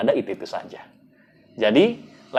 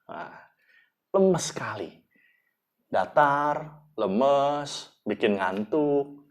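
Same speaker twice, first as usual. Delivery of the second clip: soft, drained delivery with long pauses; limp, powerless; 7 dB quieter, slower than usual. Shown as a demonstration. Trainer imitating a speaker who puts people to sleep, limp and soft. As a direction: let the energy sag until it is sleepy. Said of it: "orang kok ini lemes ya".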